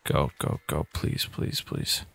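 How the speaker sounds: breathless whispered pleading; whispering. Real, not acted. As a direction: plead under your breath. Pleading while sneaking.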